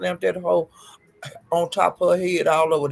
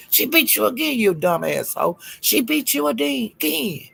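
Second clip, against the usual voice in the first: higher, sing-song gloat; taunting the loser, higher and slowing down; 5 semitones higher than usual. Acted. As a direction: rub it in her face. Taunting Ness.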